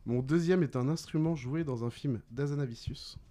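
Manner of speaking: deliberate, spaced clue-giving; measured riddle reading. Real, not acted. Quizmaster gives players a film clue, deliberately. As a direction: present the clue phrase by phrase.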